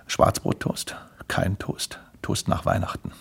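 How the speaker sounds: low, hushed listing; dejected muttering. Acted. Grimpel tallies his depressing orders, low hushed mutter. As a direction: count the orders off gloomily under your breath.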